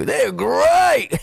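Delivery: a light cartoon-mascot catchphrase; Tony the Tiger. Storyteller joking about a great home life, mascot impression. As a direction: raise the pitch and stretch it like an ad slogan. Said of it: "Like Tony the Tiger".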